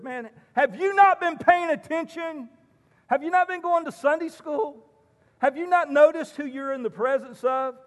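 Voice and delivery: a touch of eye-rolling disbelief; exasperated Jesus. Acted. Jesus imagined chiding Philip for not paying attention, mildly exasperated. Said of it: "Jesus just rolls his eyes and says".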